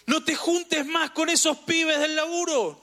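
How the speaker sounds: high, drawn-out admonishing call; warning voice. Acted. Warning someone off bad company at work, high admonishing call. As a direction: warn slowly, pitched well up. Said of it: "Y él me estaba diciendo".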